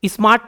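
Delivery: "स्मार्ट" as one unbroken syllable. Shown as a demonstration. Teacher showing "स्मार्ट" takes one beat, said in one go. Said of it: "एक बार मैं बोल रहा हूँ".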